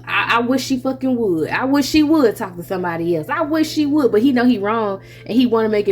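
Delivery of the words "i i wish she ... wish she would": mock anger. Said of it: "He is just like".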